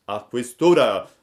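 high, loud tearful self-reproach; chained puppet lamenting in tears; crying lament. A narrator's reading. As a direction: weep out the regret. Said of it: "diceva piangendo".

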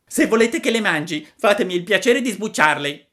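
fussy high puppet demand; a picky wooden boy making terms. Acted. Pinocchio pretende che Geppetto sbucci le pere, voce acuta.

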